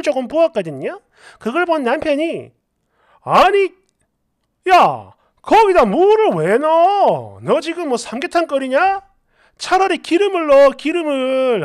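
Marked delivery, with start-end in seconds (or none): 3.2-11.6 exasperated scolding. Acted. Husband seeing water in the frying pan, exasperated scolding.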